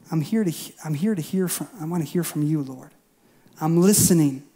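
soft, earnest prayer to the Lord; quiet prayer. Retold or imitated. Preacher modelling a prayer in the closet, soft and sincere. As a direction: pray it quietly, meaning every word. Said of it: "shutting the door and saying".

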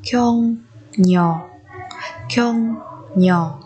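"kyong nhỏ" as two separate, drawn-out syllables; sound change shown. Shown as a demonstration. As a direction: model "kyong nhỏ" carefully, pausing between syllables. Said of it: "đọc thành".

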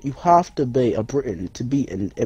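low, bad British accent. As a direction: pompously insist in a put-on British accent. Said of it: "I'm gonna do my British accent".

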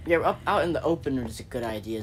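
dry mock approval; sarcastic. Zach mocking his own plan to viewers, sarcastic. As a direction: say it like you mean the opposite. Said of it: "Zach said sarcastically".

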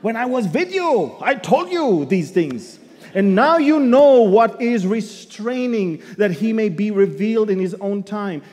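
put-on loud Hebrew-accented apostle. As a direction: preach Paul's words with a Hebrew accent. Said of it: "In that Hebrew accent".

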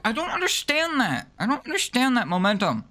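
baffled squeal. Real, not acted. Gamer failing a jump, squealing in high disbelief.

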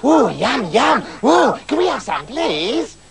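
high squeaky shout of yum; eager little men begging for a share; excited begging. A narrator's reading. Little men beg the girl for bread, excited and high. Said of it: "got very excited".

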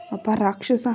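usual speaking voice

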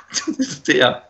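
ordinary talk

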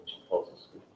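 chuckling through the punchline; laughing. Real, not acted. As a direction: laugh softly as you finish the joke. Joke about boring his wife.

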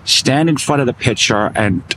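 bad New York accent; lightly put-on New York accent. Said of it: "That's a terrible New York accent".

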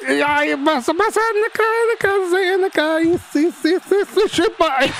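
high, rising frantic cheering; real rising excitement up to the goal; frantic urging. Real, not acted. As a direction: push the player on, frantic. Tense attack ending in goal.

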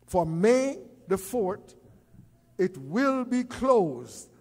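slow, drawn-out for May the fourth, it will be closed; slow emphasis. Real, not acted. Restating the brunch date to the church, slow and drawn out. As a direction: stretch each word so nobody misses it. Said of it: "Let me do that again".

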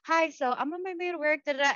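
lightly voiced dad talking to Siri; dad dictating texts. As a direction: speak a message to the phone as dad. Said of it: "He'll be talking".

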